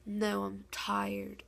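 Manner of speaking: slow, drawn-out mock refusal; retold tired refusal. Sister turning down the cooked eggs, imitated slow tired refusal. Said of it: "She was like".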